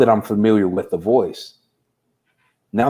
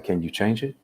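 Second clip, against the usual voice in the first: softer, gentle inner voice asking; calm peaceful voice; 8 dB quieter than usual. Retold or imitated. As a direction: quietly soothe him, a touch of calm. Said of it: "the most calm and peaceful voice".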